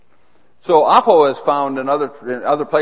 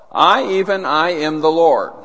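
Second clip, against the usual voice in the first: proclaiming as God, a touch louder; lightly voiced God; 2 semitones higher, 4 dB louder than usual. Preacher reads God's words to congregation, proclaiming. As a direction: speak with God's authority, declaring. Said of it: "God is speaking".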